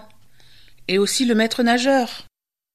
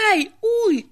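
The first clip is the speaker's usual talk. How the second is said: witch howling in pain; 8 semitones higher, faster than usual. A narrator's reading. The witch breaking her teeth, high pained howl. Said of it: "hurla-t-elle".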